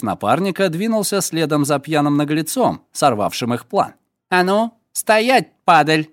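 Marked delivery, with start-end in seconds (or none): 4.3-6.1 rough threatening yell; rough shout. Acted. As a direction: bark him to a stop. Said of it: "грубый окрик".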